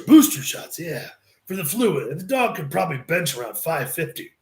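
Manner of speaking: hint of a rowdy Scottish-styled host; Piper voice. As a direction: rasp it out like Hot Rod. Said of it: "oh, that's Piper talking".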